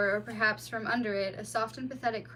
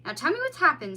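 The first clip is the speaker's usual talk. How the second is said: higher, louder worried voice; concerned mole; 5 semitones higher, 7 dB louder, faster than usual. A narrator's reading. Mole to the bleeding otter, concerned. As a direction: fuss over the wounded child.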